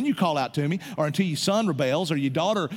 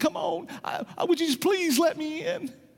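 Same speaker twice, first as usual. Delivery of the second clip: put-on pleading voice, much higher pitched; 13 semitones higher than usual. Speaker preaching like an evangelist acts out Jesus knocking: imitating Jesus begging. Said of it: "and he's begging".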